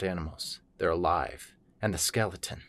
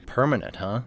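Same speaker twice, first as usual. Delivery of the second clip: put-on boy; 7 semitones higher, 6 dB louder than usual. A narrator's reading. Boy's line acted in story.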